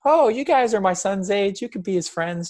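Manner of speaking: high, bright mock mum inviting the boys over; mom voice. Son imitates his mom inviting kids to play, high mock voice.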